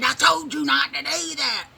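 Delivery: high, loud told-you-so; scolding friend. Retold or imitated. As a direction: scold like she saw it coming. Friend scolding after warning.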